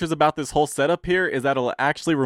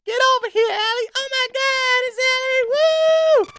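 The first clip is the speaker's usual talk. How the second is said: excited calling; 6 dB louder, slower than usual. Real, not acted. Calling girlfriend into the studio.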